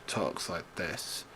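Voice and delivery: low, soft, droning; monotone Randy Orton. Retold or imitated. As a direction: keep it dull and sleepy. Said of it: "who talks like this".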